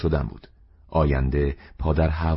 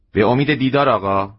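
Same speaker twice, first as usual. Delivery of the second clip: higher and louder farewell, دیدار held long; mother shop owner calling goodbye loudly; cheery goodbye; 7 semitones higher, 6 dB louder than usual. A narrator's reading. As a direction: call after the customer brightly. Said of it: "تعجب کرد".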